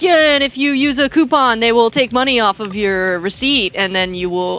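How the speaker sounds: mock infomercial host; fake sponsor read. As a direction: sell it like an obviously scripted ad. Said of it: "like, so fake".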